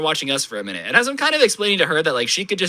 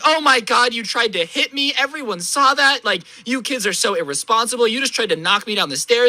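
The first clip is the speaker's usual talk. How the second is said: mock screaming lady; 5 semitones higher than usual. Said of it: "she starts screaming".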